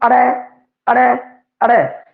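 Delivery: ਅੜੈ with the tongue curled back, repeated; sound demo. Shown as a demonstration. Teacher demonstrating the retroflex ਅੜੈ. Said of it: "ਅੜੈ ਨੂੰ ਬੋਲ ਕੇ ਦੇਖੀਏ".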